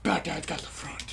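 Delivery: low, soft rasping report; Bat Dad. Acted. Friend claims front position, Bat Dad voice. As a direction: rasp it low like a hero. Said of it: "I was doing Bat Dad".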